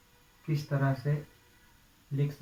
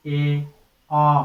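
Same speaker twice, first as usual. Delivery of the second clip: emphatic aa; 8 dB louder than usual. Shown as a demonstration. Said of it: "ए का जोर देकर उच्चारण".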